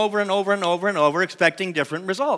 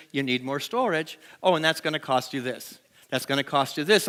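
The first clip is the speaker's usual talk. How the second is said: voicing the universe; 4 semitones lower, 4 dB quieter than usual. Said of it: "what the universe does is".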